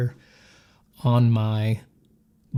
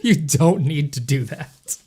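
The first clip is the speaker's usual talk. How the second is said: laughing; 2 semitones higher, slower than usual. Real, not acted. Laughing at donor's gift.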